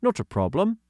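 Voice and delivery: put-on high, light voice for young Doggy; young boy voicing; boy character voice. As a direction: lift into a kid's voice. Child character voice.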